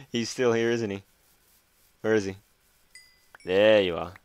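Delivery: loud startled panic; frightened gamer yelling and laughing; panicking gamer. Real, not acted. Scared by Enderman.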